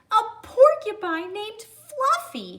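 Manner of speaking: high, loud laughing howl; howling with laughter. Acted. Rhinoceros howls at the porcupine's name, laughing high and loud. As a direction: squeal it out through laughter. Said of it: "howled the rhinoceros".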